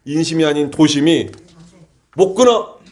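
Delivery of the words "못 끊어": higher-pitched retold cry; mock shouting. Conscience crying out against the drink, mock shouting. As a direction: imitate a sudden cry of resolve. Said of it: "이렇게 소리쳐가지고".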